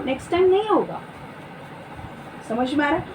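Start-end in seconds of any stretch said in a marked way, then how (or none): 0.1-1.0 softened, conciliatory assurance; gentle promise. Acted. Reassuring someone who has flared up, gently and softly. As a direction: meekly promise to do better. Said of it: "कैसे उत्तर देना है?".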